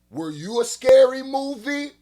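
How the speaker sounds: high, loud, eager question; excited. Real, not acted. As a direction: blurt it out, thrilled. Excited question to guest clip.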